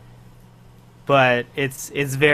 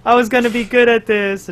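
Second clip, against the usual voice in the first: high, loud mock wail; Nako; 10 semitones higher, 7 dB louder than usual. Imitating an idol upset at her shot, high mock wail. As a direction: play a pitiful complaint, pitched way up.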